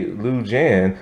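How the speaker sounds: "Liu Jian" said slowly as "Loo Jan"; American pronunciation. Shown as a demonstration. Reviewer reading the hero's name, American-style "Liu Jian". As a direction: give "Liu Jian" plain American sounds. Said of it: "being American, I would say".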